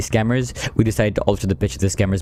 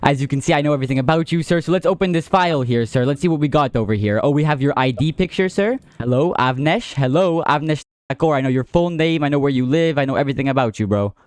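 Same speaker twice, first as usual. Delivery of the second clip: menacing taunt; 6 semitones higher than usual. Real, not acted. Confronting scammer with his details.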